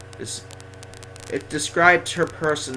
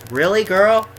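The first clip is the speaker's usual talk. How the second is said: higher, louder mock disbelief; incredulous retort; 6 semitones higher, 5 dB louder than usual. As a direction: act out talking back in disbelief. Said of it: "I'm always like".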